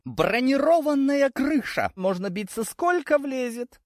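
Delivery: high, slow, beaming pitch; joyful announcement. A narrator's reading. Iriska joyfully presents the armoured roof to the hero. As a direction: sell it like a proud presenter. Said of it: "радостно заключила Ириска".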